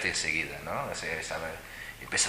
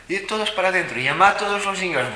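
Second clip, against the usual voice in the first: shouted order; 12 semitones higher, 10 dB louder than usual. Retold or imitated. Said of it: "Y me dice, dice él".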